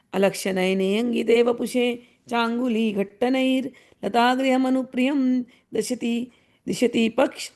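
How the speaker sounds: measured, even verse recital in Sanskrit; Sanskrit verse recitation. Acted. Teacher recites a Sanskrit sloka to the class, measured recital. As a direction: recite the sloka steadily, like scripture.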